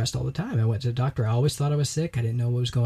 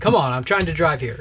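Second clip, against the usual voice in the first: loud, exasperated griping at the car cutting in; mock angry driver; 4 semitones higher, 6 dB louder than usual. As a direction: rant like a hothead behind the wheel. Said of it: "they constantly engage in the traffic talk".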